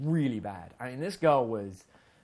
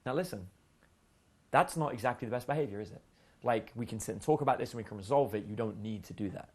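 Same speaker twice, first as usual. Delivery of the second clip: calm parent; 2 semitones lower than usual. Retold or imitated. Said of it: "That's how you talk to a five-year-old".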